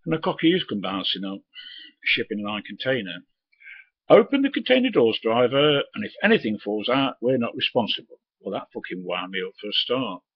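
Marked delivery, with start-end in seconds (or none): 4.1-8.2 high, loud, bossy sneering voice; mocking cocky youth. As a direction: mimic the cocky dock lad ordering him about. Cocky youth ordering the driver.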